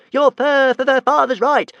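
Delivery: high, loud stammering dragon voice; panting dragon. A narrator's reading. Small dragon urging Hiccup to flee, panting stammer. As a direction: stutter it out, out of breath. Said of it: "panted Toothless".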